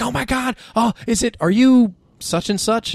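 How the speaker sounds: mock a fan losing it over a celebrity; freaking-out fan. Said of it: "somebody was freaking out".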